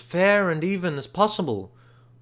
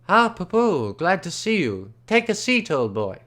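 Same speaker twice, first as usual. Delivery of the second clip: jovial auctioneer; 4 semitones higher than usual. Acted. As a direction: clap him on the back with your voice.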